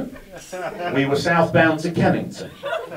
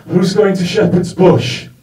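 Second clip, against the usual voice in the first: put-on drunk man calling; 3 semitones higher, 5 dB louder, slower than usual. Drunk man voiced in story.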